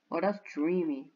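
soft, dreamy sigh of a line; mock-swooning dreamy murmur. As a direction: breathe it out all dreamy. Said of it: "did I say it like that?".

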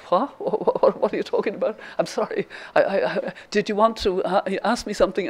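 lightly acted flustered confusion; imitating a bewildered phone clerk; baffled. Imitates baffled bank woman on phone.

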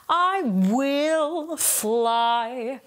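"will" colored and emphasized, sung slow; sung line with stress on "will". Shown as a demonstration. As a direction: lean on "will". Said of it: "if I wanted to really emphasize the word will".

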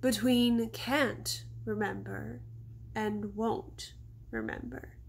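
gently. Acted. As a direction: lay the difference out gently, slowly. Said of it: "Stella says gently".

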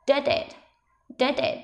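"Did it" joined with no break; linked pronunciation. Shown as a demonstration. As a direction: slide the final d of "Did" into "it". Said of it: "Nối âm nhá".

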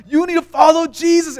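high-pitched urging, imitating a zealot; acted overexcited street evangelist; super passionate. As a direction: press it on passers-by with mock fervor. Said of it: "super passionate, super excited".

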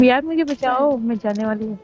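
pleading for rescue. Real, not acted. Downed player begs squad for rescue, pleading. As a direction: beg your friends to save you.

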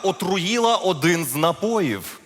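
measured storyteller with swooping emphasis; fairy-tale narration. Acted. Storyteller beginning a fairy tale about Ivan, fairy-tale narration.

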